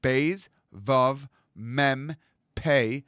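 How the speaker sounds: Beis Vav Mem Pe very slowly without using the lips. Shown as a demonstration. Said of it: "try saying those four letters".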